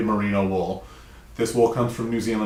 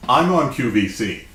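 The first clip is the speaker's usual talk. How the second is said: announcer voice; 3 dB louder than usual. Acted. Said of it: "This is my announcer voice".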